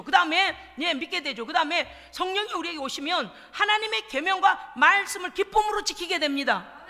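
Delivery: ordinary talk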